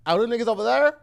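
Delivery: Saint Louis accent, extra R's in "there". Shown as a demonstration. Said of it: "Saint Louis say there".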